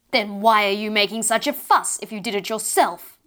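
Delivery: put-on a mother booming at her fussing child. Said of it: "boomed the voice".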